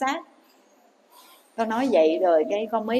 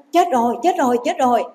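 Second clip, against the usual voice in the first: mock outcry in quick repeated bursts; noisy wailing outcry; 3 semitones higher, 4 dB louder than usual. Children raising a racket over their dying mother, mock outcry. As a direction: imitate a mild, noisy cry of alarm. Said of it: "nó làm ồn lên".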